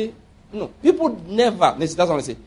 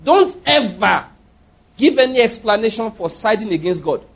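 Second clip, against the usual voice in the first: serious preacher's admonition; dead serious warning. Real, not acted. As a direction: warn them firmly, leaning hard on the first words. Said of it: "what I'm saying is not a joke".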